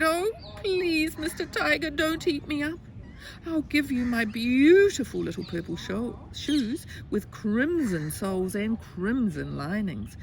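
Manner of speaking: high-pitched storybook plea; pleading little boy. Acted. Little boy begging tiger for his life, high pleading. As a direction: beg in a small, high child's voice.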